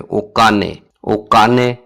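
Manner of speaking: ओकाने said evenly, o-ka-ne; Japanese word said. Shown as a demonstration. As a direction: spell out ओकाने in syllables. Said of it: "इस तरह कहते हैं".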